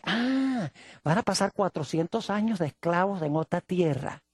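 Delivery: Satan overhearing the prophecy, quietly plotting; scheming Satan. Retold or imitated. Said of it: "Satanás dice".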